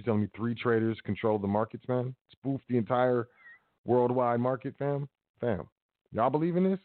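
mock-incredulous questioning; dry sarcasm, feigning belief; sarcastic. Real, not acted. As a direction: pretend you buy it, sarcastically. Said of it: "y'all hear the sarcasm in my voice".

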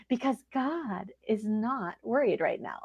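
soft, slow whisper. Real, not acted. Preacher reassuring her listeners, whispered softly. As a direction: breathe it out like a secret. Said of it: "whisper unvoiced".

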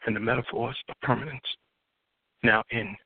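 rhythmic slam poetry delivery, building and falling; spoken word poem. Acted. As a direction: perform it like a poet on the open mic stage.

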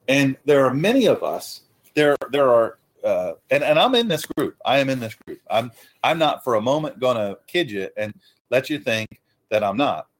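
mic pops on hard p sounds; popping p sounds. Real, not acted. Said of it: "sorry about the microphone popping".

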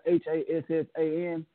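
letters spoken one by one; spelling it out. Shown as a demonstration. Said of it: "It's spelled".

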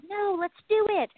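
mock gung-ho let's do it; eager refusal. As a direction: brush it off, ready to go. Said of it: "I'm like".

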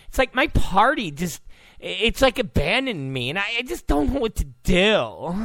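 lightly mocking Valley girl; rambling, stumbling Valley girl impression with hummed filler; a hint of ditzy, helpless whining; Meghan McCain. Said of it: "it's like a retarded Valley girl".

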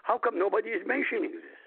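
retold moment of puzzled shock; shocked disbelief. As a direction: voice your own baffled thought, pitch lifted. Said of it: "I was shocked when I was reading it".

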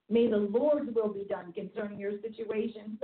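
a touch of solemn prayer voice; lightly intoned prayer; prayerful. Shown as a demonstration. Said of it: "that's the scariest prayer ever".

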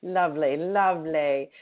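playful mock British accent; jokey British imitation. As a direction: echo the guest's put-on British. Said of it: "let me put on my British voice".

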